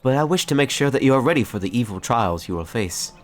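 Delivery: lightly voiced earnest ranger; a hint of lofty heroic character voice; noble ranger mentor. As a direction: counsel a newcomer as a formal storybook hero.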